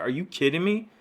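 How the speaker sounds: mildly indignant, pitch lifted; retold angry disbelief. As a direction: imitate an offended, incredulous comeback. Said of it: "angry in a split second".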